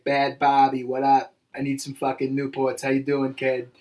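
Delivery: put-on lightly done Boston accent; a hint of a Boston townie accent. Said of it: "Barbie with a Boston accent".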